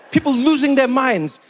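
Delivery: ordinary delivery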